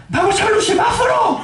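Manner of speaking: very high, gleeful mock yell; excited shout. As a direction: shout like kids off to a treat. (grito entusiasmado de imitación)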